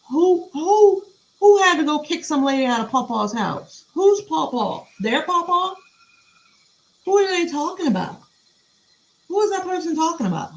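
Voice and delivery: high, incredulous string of questions; can't believe what she just read; baffled disbelief. Real, not acted. Baffled by Pawpaw in the email.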